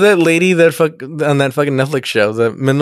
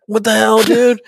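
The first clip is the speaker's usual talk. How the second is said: mock dad outburst; 7 semitones higher, slower than usual. Dad scolding son holding the flashlight, higher mock exasperation. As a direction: snap it like an annoyed dad at the car. Imitating dad fixing car.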